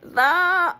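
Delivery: high, loud squeal of laughing disbelief; giddy laughing. Real, not acted. She reads the book aloud and cracks up, giddy. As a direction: laugh it out, half crying. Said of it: "find me being almost giddy as I read".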